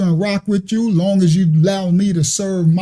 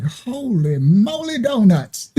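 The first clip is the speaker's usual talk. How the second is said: dazzled Adam; slower than usual. Retold or imitated. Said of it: "He was like".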